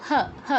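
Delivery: "হ" with an open short a, ha not ho; two separate breath-led ha sounds for "হ"; demonstrated "হ". Shown as a demonstration. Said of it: "হ এর জায়গায় হ বলবো".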